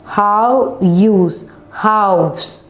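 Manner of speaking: "How use" in two separate beats, then "House" joined; syllable division. Shown as a demonstration. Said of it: "We just divided into two syllable".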